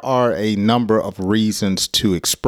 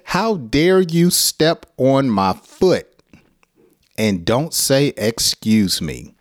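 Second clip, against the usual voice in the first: mock indignant; 3 semitones higher than usual. Shown as a demonstration. Teacher acting out being stepped on. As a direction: play the offended one. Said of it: "express your anger by saying".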